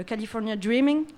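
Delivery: California Dreaming in a hint of an English accent. Host introducing a guest's book, light English accent. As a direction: says the title with a light put-on English accent. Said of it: "mon accent anglais".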